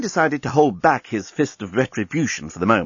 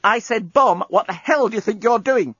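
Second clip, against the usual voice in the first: woman's voice; 11 semitones higher than usual. Acted. Lucy voiced in story.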